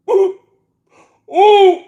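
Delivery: high delighted shriek; excited ooh. Real, not acted. Trader squealing at his screen, excited. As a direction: squeal as the trade turns green. Position turns green, excited.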